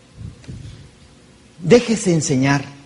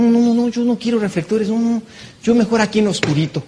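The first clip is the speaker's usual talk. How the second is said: mock shy refusal; 5 semitones higher than usual. Imitating someone afraid of success.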